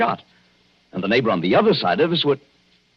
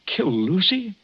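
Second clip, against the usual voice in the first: higher, startled question; shocked disbelief; 11 semitones higher, slower than usual. Acted. Husband hears his wife may be killed, stunned. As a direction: gasp it out in disbelief.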